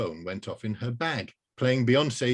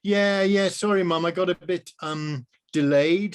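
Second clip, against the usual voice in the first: put-on higher, louder girl; young girl's voice; 7 semitones higher, 5 dB louder than usual. Rose apologising to her mum, high and breezy. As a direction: brush it off like a teenager.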